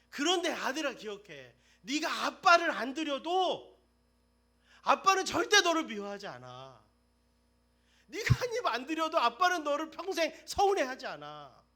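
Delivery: preacher proclaiming a father's unchanging love; fervent preaching. Acted. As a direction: declare the father's love with full force. Preaching at full force.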